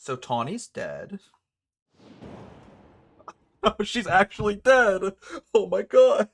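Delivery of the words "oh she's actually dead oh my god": high, loud shocked outburst; shocked shriek. Real, not acted. Gamer shrieking as a character suddenly dies, high and loud. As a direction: shriek it in disbelief.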